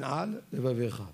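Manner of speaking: "על" separated from "לבביך"; words kept apart. Shown as a demonstration. Teacher explaining which words need a gap, careful separation. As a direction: finish "על" before starting "לבביך". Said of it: "צריך להשיג בין".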